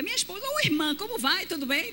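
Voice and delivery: high, bright introduction; mock-cheerful church greeting; husband's hearty greeting. Husband introducing his wife to a sister, high bright voice. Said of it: "e ele".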